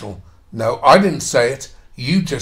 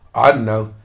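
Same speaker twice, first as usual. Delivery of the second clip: ordinary talk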